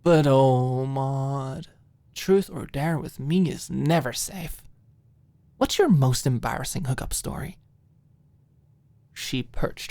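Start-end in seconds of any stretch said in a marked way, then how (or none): 0.0-7.6 playful, sly teasing; devilish tease. Acted. Alicia teasing Maud about hookup stories. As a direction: tease her like a little devil. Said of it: "she chuckled soundlessly".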